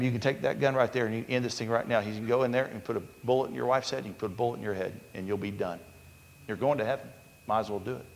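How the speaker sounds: a hint of the devil coaxing, fast and matter-of-fact; lightly voiced devil. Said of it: "devil said to him".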